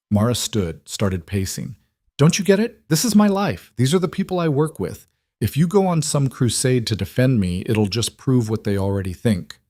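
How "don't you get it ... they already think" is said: a desperate cry that she can't be defended; angry outburst. Acted. Mara pacing, begging Adrian to understand, in a high frustrated outburst. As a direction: pitch jumps far higher as she lashes out.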